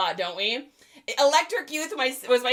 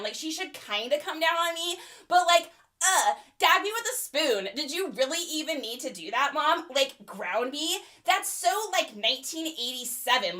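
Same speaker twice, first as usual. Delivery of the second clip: put-on valley girl teen; 3 semitones higher than usual. Eighties teen chatting with her best friend on the phone. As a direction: gossip like a bored valley girl.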